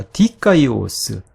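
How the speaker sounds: slow 디카이오스 with the stress on 디; stress on first syllable. Shown as a demonstration. Teacher showing the masculine accent, 디카이오스 stressed on 디. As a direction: lean on the opening 디 of 디카이오스. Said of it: "제이 마름절에 강세가 있어요".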